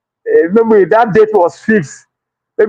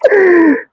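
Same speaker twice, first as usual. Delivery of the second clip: shrieking laugh; 11 semitones higher than usual. Real, not acted. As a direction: let out a shrill cackle. Bursts out at own joke.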